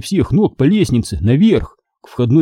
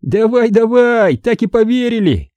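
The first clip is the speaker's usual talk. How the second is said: laughing scoff; 10 semitones higher than usual. Acted. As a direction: jeer it, not believing a word. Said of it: "засмеялся я". (насмешливо, не веря)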